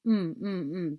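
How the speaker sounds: short repeated hummed M; just the MM sound, three times; final sound alone. Shown as a demonstration. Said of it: "What's the final sound?".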